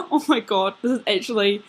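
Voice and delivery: real nervous laugh breaking in. Real, not acted. Dreamer reaching the upsetting part about Shiloh, nervous laughing. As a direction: laugh nervously as tears threaten. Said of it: "I'm laughing, but you know how I laugh when I get really nervous".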